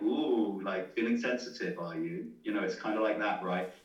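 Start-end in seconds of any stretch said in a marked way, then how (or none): 0.0-2.3 mocking tease. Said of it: "put a bit of a tone on it".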